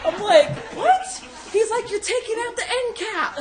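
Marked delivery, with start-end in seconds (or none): 0.8-1.2 high, loud shocked squeal; shocked what. Retold or imitated. She squeals at her boyfriend in shock, high loud squeal. 1.9-3.3 high, loud yell half laughing. Retold or imitated. Boyfriend shouting that she is dragging the end cap, high loud yell.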